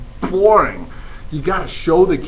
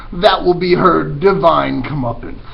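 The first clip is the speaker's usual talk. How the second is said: patient scheming rat; 4 semitones higher, 7 dB louder than usual. Acted. Roscuro gloating.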